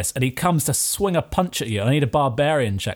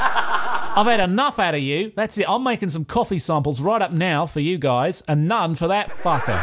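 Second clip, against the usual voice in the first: fed-up owner; 4 semitones higher than usual. Acted. Café owner banning the barbarian from samples, laughing exasperation. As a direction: lay down the law, amused.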